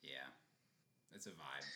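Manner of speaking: whispered aside; hushed agreement. Real, not acted. Quiet agreement.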